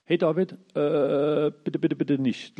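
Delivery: slow, drawn-out begging address; pleading. Acted. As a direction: hold him back gently but urgently. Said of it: "und sagt". (flehend und langsam, etwas höher)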